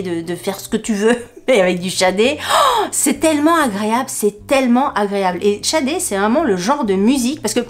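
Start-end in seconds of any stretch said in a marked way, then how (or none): 2.4-5.4 high, gasping delight; gasp, then gush with pleasure; swooning with enjoyment. Real, not acted. Gushes over listening to a singer.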